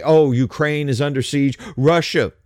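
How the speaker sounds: sarcastic, sing-song pity; mocking whine. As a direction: whine it like a pleading sob story. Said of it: "you notice they always say".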